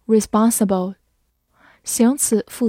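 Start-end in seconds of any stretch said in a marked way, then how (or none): 0.1-1.0 "responsible" in an American accent, open "ah" in "spon"; American pronunciation. Shown as a demonstration. Teacher showing learners the American accent on "responsible". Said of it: "或者美式发音".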